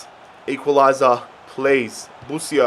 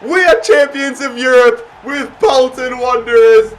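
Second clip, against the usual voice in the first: triumphant shout. Real, not acted. Celebrating the final whistle.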